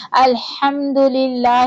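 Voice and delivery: الحمدللہ with a light, thin lam in للہ, slow. Shown as a demonstration. Teacher showing the thin lam after a zer. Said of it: "لام باریک ہوگا".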